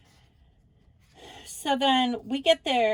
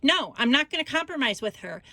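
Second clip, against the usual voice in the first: higher, fast, mildly heated protest; mock indignant refusal, pitched up; retold stubborn refusal; 4 semitones higher, faster than usual. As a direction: imitate a fed-up son refusing, quickly. Retold son refusing in quarrel.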